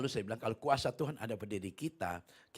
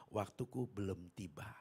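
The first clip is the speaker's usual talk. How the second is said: retold calm saying; 3 semitones lower, 4 dB quieter than usual. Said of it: "saya selalu mengatakan".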